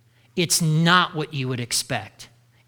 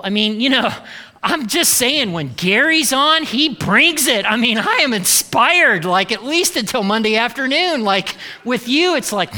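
higher, louder, fanboy praise for Gary; louder mock gripe; 4 semitones higher, 4 dB louder than usual. Church member complaining to Paul, loud mock gushing. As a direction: gush about Gary to needle Paul.

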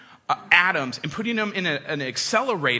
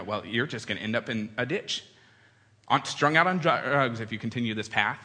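lecturing parent; 8 semitones lower, 3 dB quieter than usual. Retold or imitated. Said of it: "the lecture about how you're going".

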